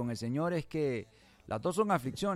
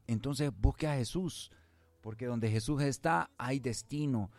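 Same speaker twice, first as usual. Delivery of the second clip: radio preaching. Acted. Preacher urging listeners to bring the Lord into their lives, emphatic preaching. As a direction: build each repeated phrase, then land the payoff.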